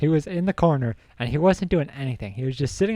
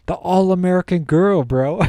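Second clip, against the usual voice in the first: high, loud imitated wail; mock crying; 7 semitones higher, 6 dB louder than usual. Storyteller imitating crying friend in the strip club, mock wail. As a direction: wail it like a hammed-up weeping friend. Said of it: "Pat Cap is crying".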